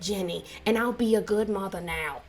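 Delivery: imitated country twang, apologizing to a daughter. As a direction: lightly put on a country mother's accent. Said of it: "in her country voice".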